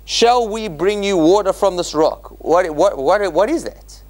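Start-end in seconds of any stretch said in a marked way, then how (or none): 0.0-2.3 the verse raised as a question; a higher, questioning read; puzzled reading. Shown as a demonstration. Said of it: "what's Moses".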